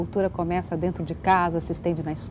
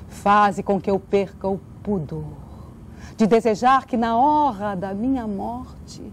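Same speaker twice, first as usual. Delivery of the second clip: recited prayer. Acted.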